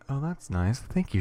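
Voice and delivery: bright, lifted thanks with pitch jumping up; excited. Acted. Daughter thanking mom, excited. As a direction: sound genuinely pleased. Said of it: "There is an excitement in her voice".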